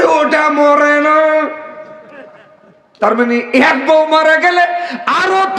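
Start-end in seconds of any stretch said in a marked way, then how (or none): 0.0-1.5 slow drawn reply. Retold or imitated. Old man's drawn-out reply.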